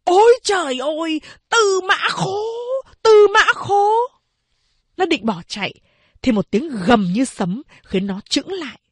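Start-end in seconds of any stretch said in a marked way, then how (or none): 0.0-3.9 hét cao, hoảng hốt; gọi tên trong kinh hãi; kêu lên kinh hoàng. A narrator's reading. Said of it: "kinh hoàng kêu lên". (giọng kinh hoàng kêu lên)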